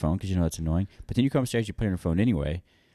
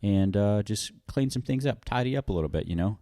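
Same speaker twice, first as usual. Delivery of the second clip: breezy self-talk. Retold or imitated. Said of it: "I just was like".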